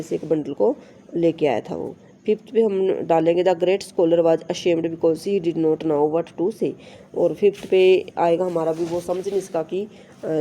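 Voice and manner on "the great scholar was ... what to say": slow, careful reading of the English text; slow textbook reading. Shown as a demonstration. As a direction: read each word out slowly for the class. Reads textbook sentence aloud. (धीमी, साफ़ पाठ्य-पुस्तक पढ़ाई)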